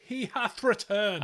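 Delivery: high, slow, grand announcement; hammed-up old-English herald; mock-grand herald. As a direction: proclaim his return like a herald. Welcomes co-host back, mock-grand.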